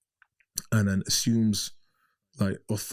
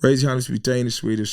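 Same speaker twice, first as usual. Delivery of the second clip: German passenger taking charge of the stranded bus; German woman taking charge; 2 semitones higher, 5 dB louder, faster than usual. Retold or imitated. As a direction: address the whole bus like a self-appointed leader. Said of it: "she goes".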